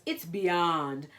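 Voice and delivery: loud, stressed catchphrase; emphatic compliment. Acted. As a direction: say it as her signature praise. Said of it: "was Panda's most special compliment".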